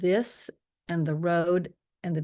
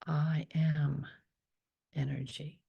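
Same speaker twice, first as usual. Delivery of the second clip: whispered affirmation. Shown as a demonstration. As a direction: murmur it inward, eyes closed. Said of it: "So I want you to do that right now".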